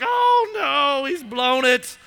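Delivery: a sudden panicked cry; alarmed cry. Retold or imitated. Soldiers watching David, crying out in alarm. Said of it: "Those guys are like".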